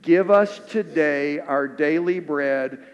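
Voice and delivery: slow, measured, unison-style prayer; Lord's Prayer recital. Acted. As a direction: lead the room through each line slowly. Leads Lord's Prayer together.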